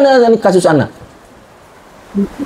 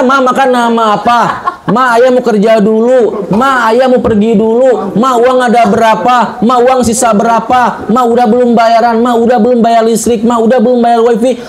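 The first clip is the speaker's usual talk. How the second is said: same raised tune on every question; higher, insistent list with a repeated lilt; nagging husband; 3 semitones higher than usual. Acted. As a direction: reel off a mock husband's daily questions. Acts husband's repetitive worldly questions.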